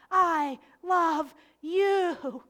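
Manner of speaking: very slow, drawn-out and tender; slow tender retelling of the words. Retold or imitated. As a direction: stretch each word gently. Slow tender retold I love you.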